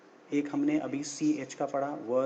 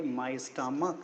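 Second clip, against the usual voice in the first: model sentence; much slower than usual. Shown as a demonstration. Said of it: "तो आप बोलोगे".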